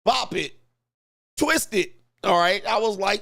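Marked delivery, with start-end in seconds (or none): 0.0-1.9 high, punchy game commands; Bop It toy commands. Retold or imitated. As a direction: imitate the toy calling out moves. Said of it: "Did the whole Bop It".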